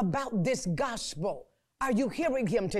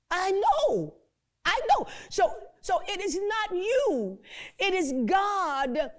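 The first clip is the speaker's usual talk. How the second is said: high reassuring reply; 7 semitones higher than usual. Acted.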